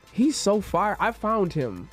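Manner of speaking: usual speaking voice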